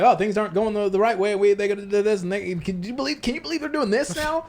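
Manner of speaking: exasperated complaining; whiny can-you-believe-it gripe; mock griping. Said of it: "gripe and frustration".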